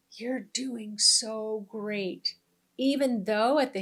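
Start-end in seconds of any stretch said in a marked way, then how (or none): 0.1-2.3 slow, gentle reassurance; lightly voiced kind inner voice; gentle higher self. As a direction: reassure tenderly, drawing it out. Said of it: "it can be gentle".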